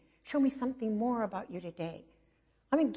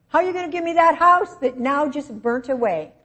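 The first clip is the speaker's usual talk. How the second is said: distraught; 7 semitones higher, 9 dB louder than usual. Retold or imitated. Desperate prayer over burnt house.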